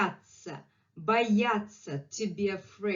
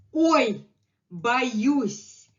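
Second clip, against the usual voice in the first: higher, louder startled cry; mock fright; 4 semitones higher, 6 dB louder than usual. Teacher acting the word out, high and startled. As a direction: jump like you're frightened.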